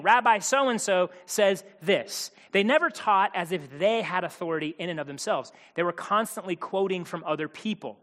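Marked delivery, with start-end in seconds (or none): 0.0-2.3 slow, deliberate citation; mock scribe citing a rabbi. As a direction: lean on each word like a pedantic scribe. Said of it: "quote rabbis and other teachers saying".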